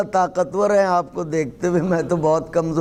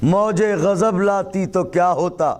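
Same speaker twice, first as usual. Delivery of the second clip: raised, declaimed verse; poetry recitation; 2 semitones higher than usual. Acted. Poet presenting an opening couplet to the audience, raised recitation. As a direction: lift the voice above chat and declaim.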